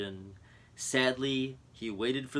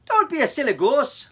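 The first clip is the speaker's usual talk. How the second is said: laughing; 13 semitones higher, 9 dB louder than usual. Acted. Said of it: "laughed the chief".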